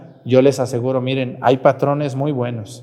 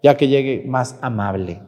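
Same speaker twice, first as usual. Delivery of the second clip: mild teasing dismissal. Retold or imitated. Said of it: "a la que llega muy brava le digo".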